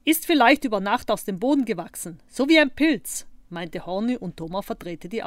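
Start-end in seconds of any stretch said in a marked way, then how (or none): 0.0-3.3 playful guess. A narrator's reading. Child's joking guess about the board.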